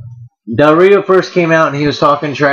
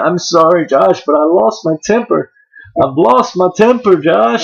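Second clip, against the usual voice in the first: imitating Kane; 5 semitones higher than usual. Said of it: "he's saying".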